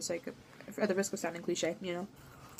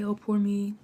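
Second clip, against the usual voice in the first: whiny self-pity; 4 dB louder than usual. Retold or imitated.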